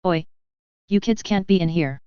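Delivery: a weak Cockney accent, mock shouting; half-hearted Cockney yell; bad Cockney shout. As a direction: play a janitor in poor Cockney. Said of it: "I shouted in my best Cockney accent".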